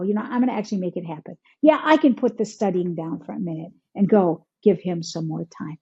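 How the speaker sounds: low, understated self-talk; resolving to act. Acted.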